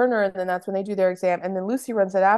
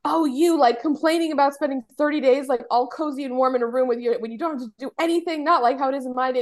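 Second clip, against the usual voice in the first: scolding mother-in-law; 5 semitones higher than usual. Retold or imitated.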